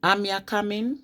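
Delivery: rising Wolverhampton question; Wolverhampton accent. Shown as a demonstration. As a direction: ask it like a Wolverhampton local. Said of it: "they say".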